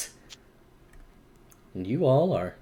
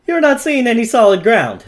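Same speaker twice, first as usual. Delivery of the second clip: urgent narration; 8 semitones higher, 4 dB louder than usual. A narrator's reading. GM describing falling danger.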